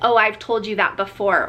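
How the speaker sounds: ordinary talk, nothing marked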